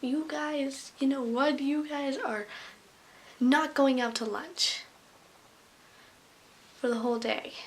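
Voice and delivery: put-on emphatic scolding in a light Hispanic accent; imitated Hispanic accent. Substitute denying the class lunch, imitated Hispanic accent. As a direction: lay down the punishment in a mock Hispanic accent. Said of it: "she had an Hispanic accent".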